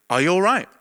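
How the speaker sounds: lightly voiced man calling out gently; a gentle man's voice asking if he's okay; kind voice waking him. A voice in the bedroom asking the sleeper, lightly voiced. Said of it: "nice, soft, calm voice".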